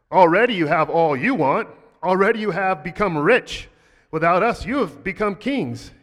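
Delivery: loud, mocking sarcasm with big swoops in pitch; sarcastic reading. Shown as a demonstration. Paul mocking the proud Corinthians, loud and sarcastic. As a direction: drip with sarcasm, heckling them. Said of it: "It should actually be read like, like this".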